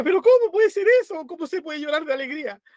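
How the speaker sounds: amazed disbelief. Retold or imitated. Old lady puzzled by weeping man.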